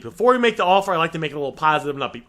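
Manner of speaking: ordinary talk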